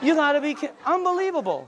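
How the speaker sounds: cracking up in disbelief; laughing disbelief. Real, not acted. Laughing in disbelief at sales story.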